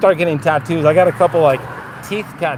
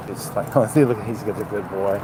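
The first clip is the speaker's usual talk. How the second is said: usual speaking voice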